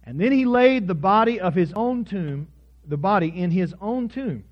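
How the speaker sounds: measured reading with long pauses; scripture reading. A narrator's reading. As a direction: read the passage out solemnly, phrase by phrase. Reads the scripture passage aloud.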